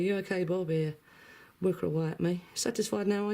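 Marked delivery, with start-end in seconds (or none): 0.0-0.7 usual pet greeting. Retold or imitated. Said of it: "Normally I say".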